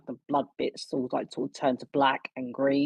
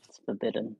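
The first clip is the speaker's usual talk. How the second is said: geeky little laugh; 3 semitones lower than usual. Acted. Cleric asked about his forbidden magic, geeky laugh. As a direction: give a small geeky chuckle after speaking. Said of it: "sort of laugh, like, a bit geekily".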